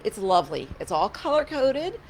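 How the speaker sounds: lightly sarcastic mock approval, pitch lifting; gently ironic admiration; a little sarcastic. Real, not acted. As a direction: praise it with a touch of sarcasm. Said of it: "I'm being a little sarcastic".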